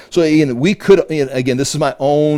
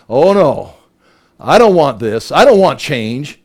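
dismayed demon; 3 dB louder than usual. Retold or imitated. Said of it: "And the demon's like".

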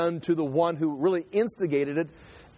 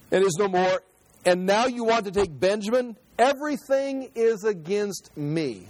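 despairing lament; 4 semitones higher than usual. Acted. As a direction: let the last line sink in defeat. Jacob refuses to send Benjamin.

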